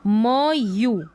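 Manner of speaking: म and यू sounded out as separate parts; sounding out. Shown as a demonstration. Teacher breaking music into sounds for learners, sounding out. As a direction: say म, then a long यू. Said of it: "एम को म पढ़ा".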